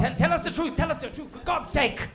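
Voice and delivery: pleading. Acted. Pleading with mysterious figure.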